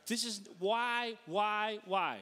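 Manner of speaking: slow, repeated plea; exasperated. Acted. Northeast driver stuck at the four-way stop, exasperated. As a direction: stretch each "why" in mock despair.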